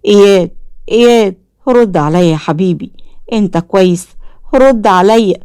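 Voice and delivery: mild frightened pleading to his son; fearful. Acted. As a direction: shake him awake in fear. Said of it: "عامر بخوف".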